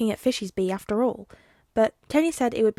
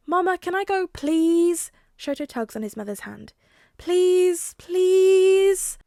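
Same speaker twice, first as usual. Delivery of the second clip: put-on high, loud child voice, pleading harder; begging little boy; 8 semitones higher, 8 dB louder, slower than usual. A narrator's reading. Boy begs his mother to go to the party, pleading. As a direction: beg over and over like a small child.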